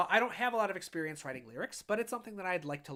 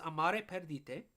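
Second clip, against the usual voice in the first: "Amare Perdite" said slowly in a clumsy Spanish accent; bad Spanish accent. Shown as a demonstration. Reading the piece's title aloud in a self-admitted terrible Spanish accent. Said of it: "That's a terrible accent".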